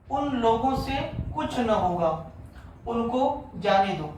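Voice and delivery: slow, word by word dictation. Shown as a demonstration. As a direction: read slowly so students can write. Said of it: "आठवां में लिखा हुआ है". (धीमा श्रुतलेख)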